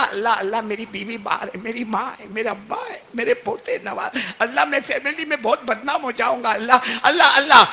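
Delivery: rising, breaking cry of Allah; tearful plea. Acted. Weeping sinner cries out to God for mercy. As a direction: let the plea swell into a cry.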